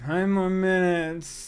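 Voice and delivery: slow, drawn-out sleepy plea; sleepy groan. Acted. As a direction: beg like you're half asleep.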